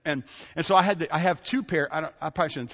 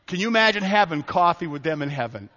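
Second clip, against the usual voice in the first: louder, pressing the question on the congregation; emphatic repeat; 3 semitones higher, 5 dB louder than usual. Shown as a demonstration. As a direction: push the image home with energy. Repeated invitation to imagine.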